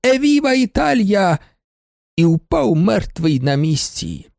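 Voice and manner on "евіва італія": shouted cry. A narrator's reading. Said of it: "поцілував і крикнув".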